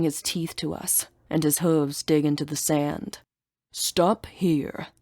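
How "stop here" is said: breathy whispered warning; monster's warning. Acted. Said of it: "the monster warns".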